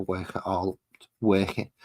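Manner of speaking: accidental hint of Scouse; lightly Scouse-tinged vowels; Scouse slip. Real, not acted. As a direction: let a little Scouse slip in on "work it". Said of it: "almost had a Scouse accent there".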